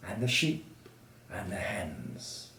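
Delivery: slow, soft narration sinking to a whisper; stealthy hush. A narrator's reading. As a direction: tiptoe through the words, almost whispered. Animals creep into the sleeping house.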